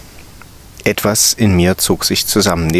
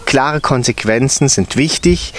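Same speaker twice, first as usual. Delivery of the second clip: textbook recitation; 4 semitones higher than usual. A narrator's reading. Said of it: "begann vorzulesen".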